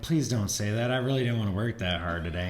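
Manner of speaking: mock-beg a teammate to go easy; reluctant plea. Acts out his reluctant plea to teammate.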